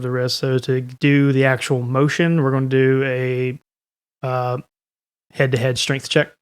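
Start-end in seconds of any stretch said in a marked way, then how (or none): none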